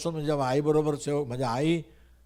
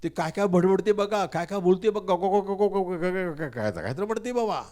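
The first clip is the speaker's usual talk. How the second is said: higher, louder mock gossip with gibberish; 4 semitones higher, 3 dB louder than usual. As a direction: ham up the scandalised neighbours. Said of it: "लोकांना काय म्हटलं माहिती आहे का".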